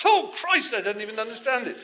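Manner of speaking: loud, high-pitched wail of dismay; hammed-up writer's meltdown; mock despairing outburst. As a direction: cry out, hopelessly baffled. Panicking writer reads Joyce, acted.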